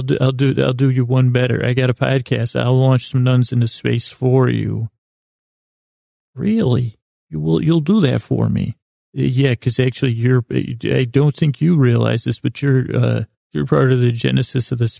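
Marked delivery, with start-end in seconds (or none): 6.3-8.8 put-on little boy. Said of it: "a little kid part of me".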